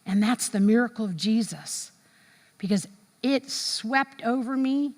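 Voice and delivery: slow, peaceful testimony; slow, hushed awe; slow reverent calm. Retold or imitated. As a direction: let the peace settle, slowly. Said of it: "he goes".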